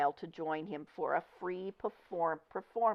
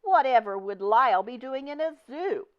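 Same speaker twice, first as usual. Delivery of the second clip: higher, louder distressed question; miserable exclaim; 7 semitones higher, 6 dB louder than usual. Acted. Mrs Prim dismayed that Lyle goes to the zoo. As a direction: plead in miserable disbelief. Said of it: "exclaimed miserably".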